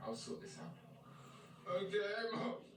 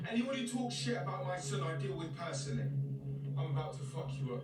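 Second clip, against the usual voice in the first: angry threat; 4 dB louder than usual. Acted. Parents' car park fight threat.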